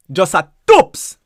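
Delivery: "just a toops" said slowly, "tops" with a long "oo"; "toops" stretched out, Jamaican style. Shown as a demonstration. Teacher saying it to learners, Jamaican Patois. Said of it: "we say just a tops".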